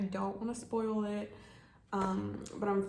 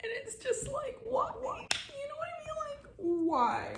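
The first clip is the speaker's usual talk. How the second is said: crying. Real, not acted. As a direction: ask it through tears. Still crying.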